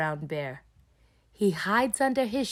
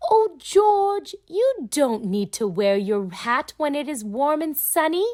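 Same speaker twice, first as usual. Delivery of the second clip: Mummy Pig; 6 semitones higher, 5 dB louder than usual. Acted. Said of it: "Mummy Pig tells him".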